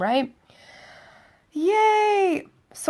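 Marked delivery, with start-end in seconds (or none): 1.5-2.5 mock cheer. Mock cheer over good date prospects.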